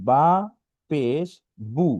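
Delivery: "বা পেশ বু" word by word, ending in oo; spelling drill. Shown as a demonstration. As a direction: sound out "বা পেশ বু" with pauses. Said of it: "পেশের উচ্চারণ হচ্ছে হলো বাংলায় উকারের মতো".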